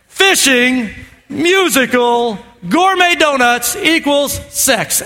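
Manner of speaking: slow, spaced-out listing; deliberate formula. Shown as a demonstration. Pastor dictates the formula to the congregation, slow and deliberate. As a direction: lay it out word by word. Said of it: "Write it down".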